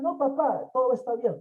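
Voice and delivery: voz de niño. Retold or imitated. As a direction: lightly play the stubborn kid. Niño responde al padre. (voz de niño terco, un poco más aguda)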